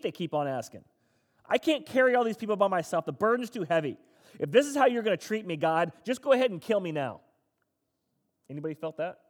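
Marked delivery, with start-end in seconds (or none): 1.4-7.2 louder and higher, a pleading protest that climbs; frustrated complaint. Retold or imitated. Moses protests to God over the grumbling people, loud and frustrated. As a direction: play Moses fed up and heated, pushing back at God. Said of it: "Moses is pretty frustrated".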